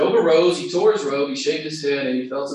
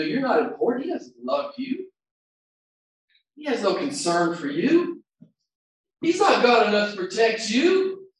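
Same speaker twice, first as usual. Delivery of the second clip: mock taunting voice of Satan, higher; lightly voiced tempter, higher pitched; voice of the accuser; 9 semitones higher, 4 dB louder than usual. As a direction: sneer the devil's whispers at the listener. Voicing Satan's lies in your head.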